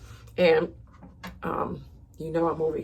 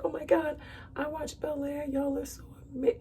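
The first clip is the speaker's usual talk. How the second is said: higher, excited gushing celebrity; gushing fan imitation; 10 semitones higher than usual. Imitating Teyana greeting her as a fan, up high and gushing. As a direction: gush up high like a starstruck fan. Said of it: "She's like".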